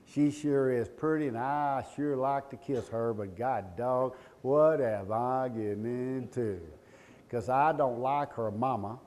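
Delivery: lightly voiced groom, drawn out slowly; slow, drawling second thoughts; bewildered groom. Groom fretting to himself about marrying her, slow bewildered drawl.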